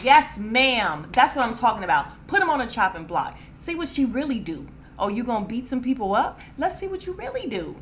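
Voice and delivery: loud, fast, fired-up cheering; egging her on with full hype; hyped shouting at the TV. Retold or imitated. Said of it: "Y'all, I was fired up".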